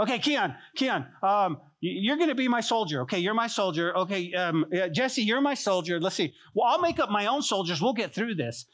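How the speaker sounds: high, rushed flustered rambling; lightly hammed-up panicky planner; flustered scheming. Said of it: "Ezra didn't get prideful going".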